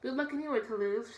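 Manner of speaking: forced cheerful farewell, high and loud; calling out good luck to hide disappointment; brave goodbye. Acted. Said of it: "Chadwick said, but without his usual cheerfulness".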